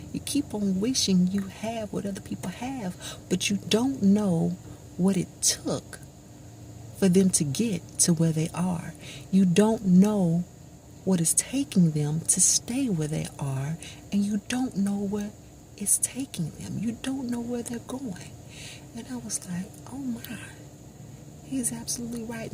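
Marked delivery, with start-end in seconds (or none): 0.1-18.3 a pastor driving the point home from the pulpit; preaching pastor. Retold or imitated. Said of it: "He said". 19.9-22.5 hushed realisation. Retold or imitated. Sudden realisation.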